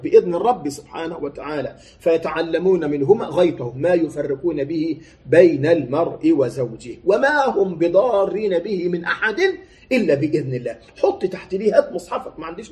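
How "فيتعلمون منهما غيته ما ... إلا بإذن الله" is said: slow, measured chanted recitation; Quran recitation. Acted. Preacher reciting the verse to the congregation, slowly chanted. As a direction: draw out each word of the verse.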